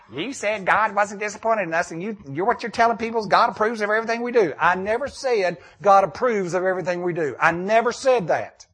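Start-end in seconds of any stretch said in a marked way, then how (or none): 0.1-4.5 mock complaining caller. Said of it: "the phone calls are gonna come".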